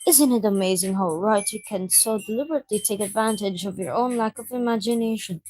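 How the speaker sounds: lightly voiced reserved reader, musing; a gentle, understated bookish-girl voice. Voices Yuri discussing books.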